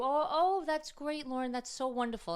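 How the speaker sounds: high, loud gushing praise; forced delight. Retold or imitated. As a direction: pour on enthusiasm. Mom forcing praise to daughter.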